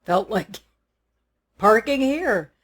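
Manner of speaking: joking. Retold or imitated. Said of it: "And I'm joking".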